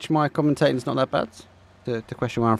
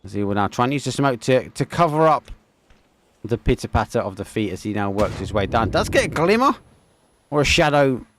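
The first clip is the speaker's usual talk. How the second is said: live play-by-play. Acted. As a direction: drive the commentary as the action heats. Caster calls live match.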